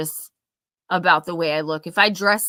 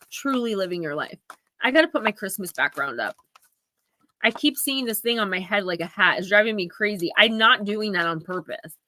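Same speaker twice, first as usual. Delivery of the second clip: ordinary talk, nothing marked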